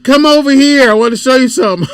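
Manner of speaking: imitating young daughter. Father retells daughter calling him over, imitated child voice. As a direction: mimic a little girl calling her dad over. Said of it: "She said".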